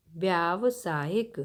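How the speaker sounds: व्यावसायिक said slowly with every syllable clear; slow word demo. Shown as a demonstration. Teacher sounding out a word for pupils, slow. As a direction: lay out व्यावसायिक piece by piece. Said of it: "व्यावसायिक मतलब व्यवसाय से संबंधित".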